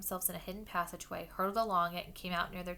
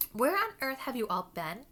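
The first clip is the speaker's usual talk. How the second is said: scolding fat lady; 6 semitones higher, 7 dB louder than usual. Acted. Portrait scolding the children.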